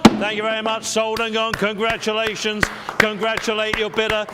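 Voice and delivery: rising auction call to the sale; auctioneer. Acted. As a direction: build up to going once, going twice.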